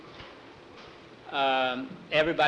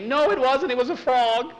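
high panicked scream for mother; 10 semitones higher, 5 dB louder than usual. Acted. Nancy runs in frightened, screaming to her mother. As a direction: shriek it, terrified. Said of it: "Nancy was still screaming".

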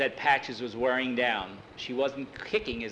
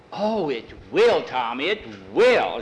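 earnest pleading; 6 dB louder, slower than usual. Acted. Skeeter pleading for his pennies.

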